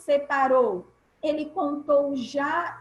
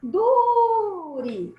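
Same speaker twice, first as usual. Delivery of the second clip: drawn-out, raised call on "Dure", as to a person; calling someone; 5 semitones higher, 5 dB louder than usual. Shown as a demonstration. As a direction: call out "Dure" like a name, stretching the DU high and loud. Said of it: "se eu chamasse uma pessoa".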